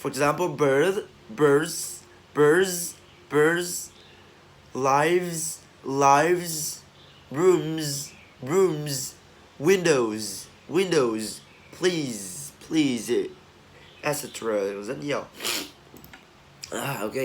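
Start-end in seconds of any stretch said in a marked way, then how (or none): 1.3-13.1 "birds, lives, rooms" ending in a voiced z; final Z sound. Shown as a demonstration. Teacher drilling Z endings, "birds, lives, rooms" with voiced z. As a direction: let "windows" and "please" end on a buzzed z. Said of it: "chúng ta đọc là Z thôi".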